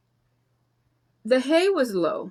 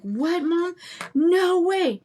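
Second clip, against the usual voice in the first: higher, mock-shocked daughter; surprised daughter; 7 semitones higher, much slower than usual. Imitating her daughter's reaction to the news, higher and surprised. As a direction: squeal it like a stunned teen. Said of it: "she's like".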